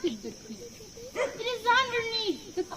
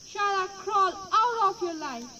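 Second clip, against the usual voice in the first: sad; 2 semitones higher than usual. Acted. Rejected turtle pleads to bagpipe.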